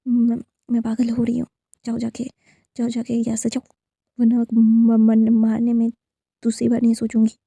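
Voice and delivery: rising to a loud threat; threatening shout. Acted. Threatening, losing control. (धमकी भरी ऊँची आवाज़)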